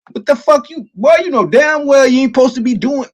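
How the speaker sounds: high, scolding inner voice; imitating his own mind scolding him; mind cussing me out. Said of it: "That's how my mind be talking to me".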